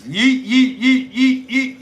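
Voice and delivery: put-on high, loud, nonstop kid chant; imitating his son. Dad mimicking his son's endless catchphrase, high mock chant. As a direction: pester them with a repeated yelp. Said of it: "but he's been saying".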